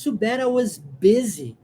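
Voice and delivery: Too bad I was busy said slowly and clearly; slow, clear English demo. Shown as a demonstration. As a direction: read the line slowly for learners. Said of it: "pronúncia da palavra busy".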